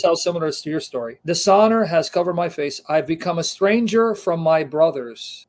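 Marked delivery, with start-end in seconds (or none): 1.2-5.5 fervent Bible reading; emphatic scripture reading. Acted. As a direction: proclaim the psalm like a prayer of distress. Reads psalm aloud.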